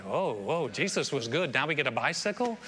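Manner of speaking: understated, questioning mock surprise; mock puzzled reaction. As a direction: play a mildly baffled crowd questioning the gift. Mock reaction to a wrong gift.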